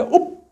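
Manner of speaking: abrupt gulp, mimicking a child cutting off a cry; imitated stifled cry. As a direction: act out clamming up mid-sob. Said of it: "입 딱 닫고". (울음을 뚝 삼키는 소리 흉내)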